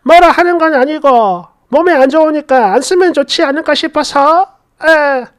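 웃음 섞어 에둘러 나무라는 시어머니; 가볍게 흉내 낸 시어머니의 잔소리; 웃으며 혼내기. Acted. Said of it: "웃으면서 혼났다라고 하는 게". (웃으면서 돌려 타이르는 말투)

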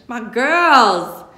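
loud, arms-wide gushing greeting. A narrator's reading. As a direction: welcome them over the top. Nana greets with open arms.

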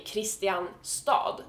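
"Kristianstad" as written, kris-ti-an-stad; spelling pronunciation. Shown as a demonstration. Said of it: "it's not pronounced Kristianstad".

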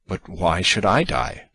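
slow, defensive question. Acted. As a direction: defend herself, slowly. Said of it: "as though defending herself".

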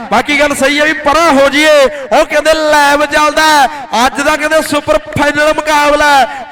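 rapid-fire kabaddi play-by-play; frantic rural sports commentary. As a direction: call the match live, hyped. (ਜੋਸ਼ੀਲੀ kabaddi commentary)

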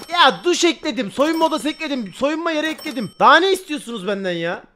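venting at demanding customers; exasperated. Real, not acted. Streamer complaining to game customers, exasperated.

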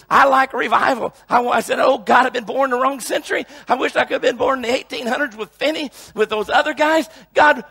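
impassioned preacher in full flow; fervent preaching. Real, not acted. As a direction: pour out the testimony with urgency. Preaches own revival testimony.

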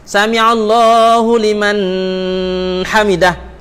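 'liman' and 'hamidah' split by a pause; faulty tajwid. Shown as a demonstration. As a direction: break off before 'hamidah'. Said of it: "Tu tajwid salah".

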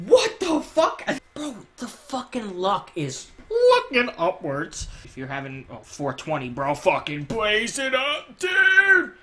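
high, loud laughing yell; excited shout. Real, not acted. Thrilled at lucky loot, yelling high and loud.

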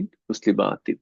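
মুসলিমাতিন with the maa stretched out; মুসলিমাতিন said with a held madd vowel; long-vowel plural. Shown as a demonstration. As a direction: lengthen the aa in মুসলিমাতিন before the final tin. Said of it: "এক আলিফ টান".

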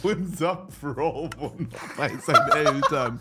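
words breaking into giggles; stifled giggles. Real, not acted. Teasing about pro living with parents. (unterdrücktes Kichern)

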